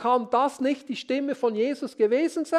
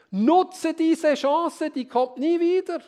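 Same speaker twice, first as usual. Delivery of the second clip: higher, slow, salesy pitch; pushy ad voice; 5 semitones higher, 3 dB louder than usual. Acted. Preacher mimicking the voice that lures you, higher and slow. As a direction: sell it like a tempting advert. Voice of advertising temptation.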